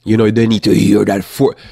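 loud, pressing and forceful; forceful emphasis. Shown as a demonstration. Explaining what children need to hear, loud and forceful. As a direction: keep up the stern, loud voice. Stays in the stern demo voice.

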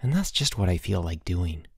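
soft, low and longing; wistful. Acted. Boots telling his friend he wants to run away, wistful. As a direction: let the wish slip out quietly. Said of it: "Then he added wistfully".

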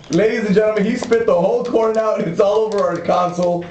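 high excited announcer; excited announcing. Real, not acted. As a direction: announce it with glee. Host announcing to listeners.

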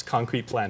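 "concrete" repeated with deliberate weight; firm stress on the word "concrete". Retold or imitated. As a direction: put the emphasis squarely on "concrete". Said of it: "again, in all caps".

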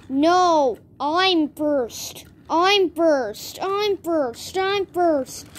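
lightly voiced squabble over who goes first; short, insistent bursts, one after another; acted bickering. Eager engines Emily and Molly racing to be first, mock bickering.

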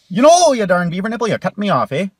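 loud exasperated Canadian scolding; mock road rage. Canadian guy yelling at a rude skier, loud and exasperated. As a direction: bark at the rude skier, folksy and fed up.

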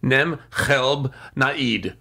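name spelled backwards, slowly; backwards speech. Shown as a demonstration. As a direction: read the sounds of Dean Bleckman in reverse. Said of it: "I'm gonna say it backwards".

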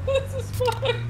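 slow, very high laughing; high squealing laugh. Real, not acted. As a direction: squeal it out while cracking up. Laughing at a game fail.

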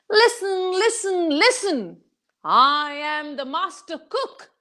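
high announcing call, easing into a mild sales pitch; calling out loud. Acted. Traveler calling the villagers from the mountaintop, a mild crier voice. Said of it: "started screaming".

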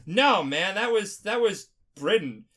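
hammed-up British voice that misses the mark; bad British accent. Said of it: "is that your British accent?".

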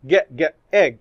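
"ج، ج" repeated as a bare sound before "egg"; isolated sound. Shown as a demonstration. Teacher to class, sounding out the double G: isolated sound. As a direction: tap out "ج" twice, then "egg". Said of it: "يا ترى التي ولا الجي".

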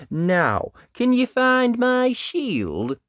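loud, slow, high-swung question; Dad asking. A narrator's reading. Dad asking Ned for his shield, loud hearty voice. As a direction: call out slowly and loudly. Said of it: "he asked".

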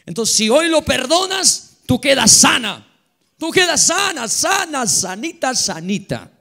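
proclama la sanidad con fuerza, más alto; proclama enérgica. Acted. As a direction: predicador declarando sanidad en voz alta. Pastor proclama sanidad a la hermana. (pastor a la hermana, proclamando sanidad con fuerza)

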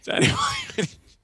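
very high, strained Forrest Gump. Retold or imitated. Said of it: "He just calls everyone Jenny".

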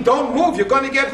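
high loud warning cry; imitating a panicked yell. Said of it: "He was yelling".

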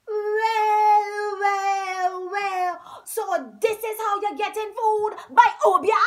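amazed accusation. A narrator's reading. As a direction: catch him out, astonished.

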